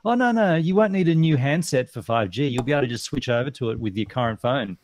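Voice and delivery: breezy dismissive salesman; chirpy confident shop clerk; salesperson voice. Retold or imitated. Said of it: "he said".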